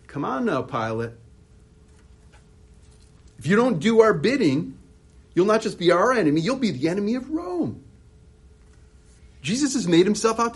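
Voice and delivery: loud, high, pushy taunting voice; pressuring Pilate. Retold or imitated. The Sanhedrin pressuring Pilate to do their bidding, loud and pushy.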